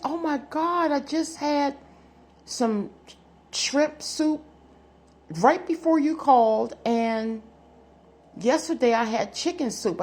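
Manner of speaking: high, amazed gasp of a friend; a friend thrilled the reading was right; excited friend. Retold or imitated. Imitating a friend who is amazed the psychic saw her soup, high and excited.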